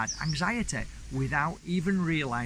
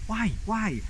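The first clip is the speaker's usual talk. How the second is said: Irish lady; 8 semitones higher than usual. Retold or imitated. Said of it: "she was an Irish lady".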